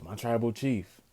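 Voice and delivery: imitating Heyman offering the chair; mock offering. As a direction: present the chair like a gift. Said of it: "And he goes".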